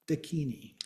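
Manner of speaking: "dakini" stressed on the KI, da-KI-ni; stress on second syllable. Shown as a demonstration. Teacher giving the exception to the stress rule, "dakini" stressed on second syllable. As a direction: put the weight on the middle syllable of "dakini". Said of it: "it is on the second syllable".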